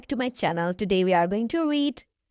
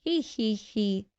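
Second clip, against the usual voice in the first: giggling; 4 dB quieter than usual. Acted. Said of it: "laughs George".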